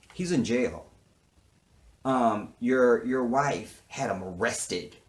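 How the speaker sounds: mock cop with a bit of attitude. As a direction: sneer it out like a smug cop. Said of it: "with a little attitude".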